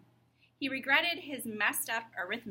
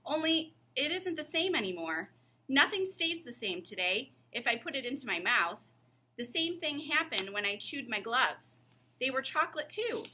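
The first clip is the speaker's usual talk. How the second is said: put-on higher boy voice, earnest; young John explaining; 5 semitones higher than usual. John explains to Miss Plimsoll, puzzled boy voice.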